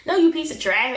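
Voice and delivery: high, scornful scold; mock outrage. Friends scolding the cheating friend in mock outrage. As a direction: call him trash with mock fury.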